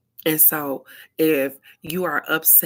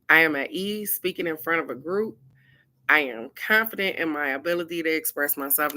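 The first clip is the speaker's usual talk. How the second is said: affirmation reading. Acted.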